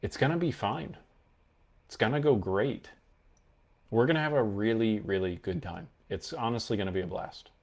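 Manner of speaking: calm, settled, falling tone; confident finality. Shown as a demonstration. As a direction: say it like it's already decided. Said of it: "a positive statement of finality like this".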